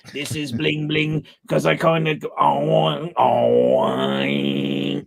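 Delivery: a hint of whiny, sing-song Bling Bling; whiny singy voice. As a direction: lightly whine and sing the words. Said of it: "like, whiny, singy voice".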